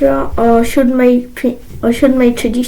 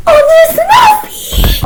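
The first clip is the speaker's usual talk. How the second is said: shocked cry; 4 dB louder, slower than usual. Acted. Acted surprise at the note.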